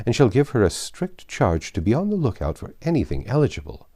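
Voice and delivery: lightly voiced bossy matron; gushing, insistent society lady; Mrs Elton. Matron brushing aside a young woman's scruples, insistent.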